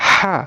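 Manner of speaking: হা with a squeezed throat; হা as a pharyngeal h; big throaty HA. Shown as a demonstration. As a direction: tighten the throat on হা. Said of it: "এটা হচ্ছে বড় হা".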